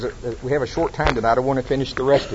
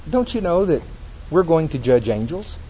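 matter-of-fact; 2 semitones higher than usual. Retold or imitated. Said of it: "he says it so matter-of-factly".

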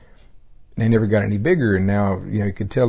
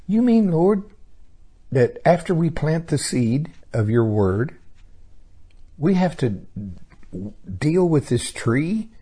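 astonished high question; 4 semitones higher than usual. Retold or imitated.

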